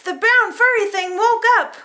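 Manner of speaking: lively storybook reading; reading to children. A narrator's reading. Parent reading a picture book to kids, lively. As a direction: read it like bedtime for little ones.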